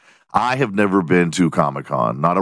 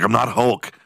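mock Hulk voice; 4 semitones higher than usual. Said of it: "Be like".

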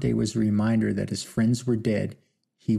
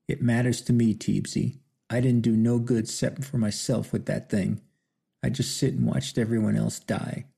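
short of breath. Acted. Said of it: "between his shallow breaths".

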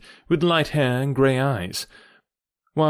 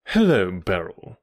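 lower, slow and cool greeting; not cordial; 6 semitones lower than usual. A narrator's reading. Brother coolly greets his sister, not cordial. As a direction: greet her coolly, without warmth. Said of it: "the tone of his greeting was not altogether a cordial one".

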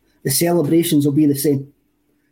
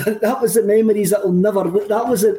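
laughing; 2 semitones higher than usual. Real, not acted. Laughing at a clip while retelling.

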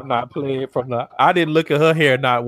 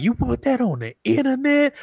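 mimicking Jada; 11 semitones higher than usual. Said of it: "even Jada was like".

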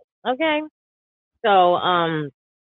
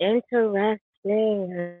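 slow, knowing drawl; drawn-out interesting; 4 semitones higher, much slower than usual. Real, not acted. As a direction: stretch it out with meaning. Drawn-out teasing reply.

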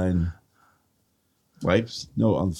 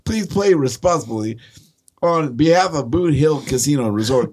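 put-on Southern accent; 6 semitones higher than usual. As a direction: read the fine print in a Southern accent, half-laughing. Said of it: "How'd you turn Southern?".

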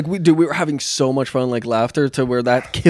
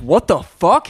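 mock outrage, pitched higher; lightly acted indignant outburst; flipping out; 5 semitones higher, 4 dB louder, slower than usual. Friend flipping out at the shot seller, mock outrage. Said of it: "supposedly he flipped out saying".

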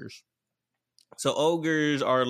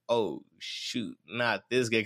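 lightly acted dread, dropped low; dismayed ogre; 3 semitones lower, slower than usual. Ogre dismayed at seeing the guy.

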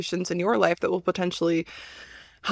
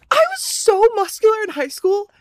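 high, loud crying laugh; laugh-cry it in disbelief; 11 semitones higher, 5 dB louder than usual. Real, not acted. Laughing shock.

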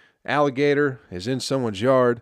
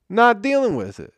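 much higher, louder outburst; exasperated shout; 12 semitones higher, 6 dB louder than usual. Acted. Comic erupting at podcast listeners, exasperated shout. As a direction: blow up on the repeat. Comic rant, repeated refusal line.

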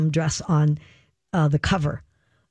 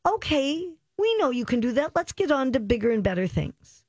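exasperated; 6 semitones higher than usual. Retold or imitated. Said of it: "There are times I'm like".

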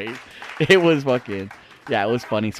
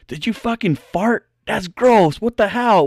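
grandpa scolding; 7 semitones higher than usual. Retold or imitated. Grandpa scolding brother in story.

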